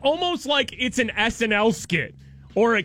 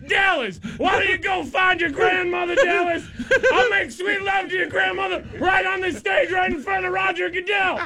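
put-on boastful old announcer; 4 semitones higher than usual. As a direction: heckle the crowd with a bad boast. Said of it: "they parade out there".

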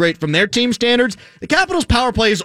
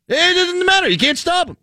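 excited; 11 semitones higher than usual. Real, not acted. Emphatic sports rant repeat.

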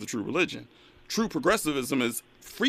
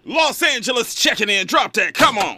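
excited; 9 semitones higher, 6 dB louder than usual. Real, not acted. Host hypes caller over music.

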